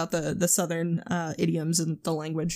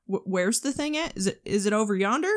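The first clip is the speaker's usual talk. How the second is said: put-on teasing Southern accent. Going back and forth with mom, mimicked Southern accent. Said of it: "we'll intentionally go back and forth".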